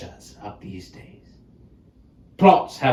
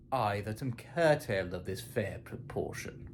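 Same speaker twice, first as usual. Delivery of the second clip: bitter whisper; 3 semitones lower, 14 dB quieter than usual. Acted. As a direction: whisper it like a painful confession. Confides his deformity.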